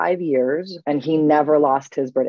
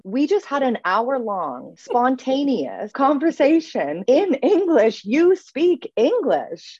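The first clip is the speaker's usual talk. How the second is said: higher, slow and drawn-out insistence; emphatic insistence; 8 semitones higher, slower than usual. Retold or imitated. Language coach telling a doubting client, emphatic insistence. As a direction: spell it out in disbelief, word by word.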